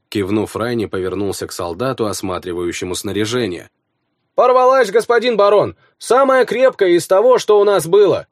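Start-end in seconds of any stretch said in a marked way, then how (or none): 4.3-8.3 raised, higher soldier's report; a plain soldier reporting to his lord. A narrator's reading. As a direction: voice the soldier up and bright.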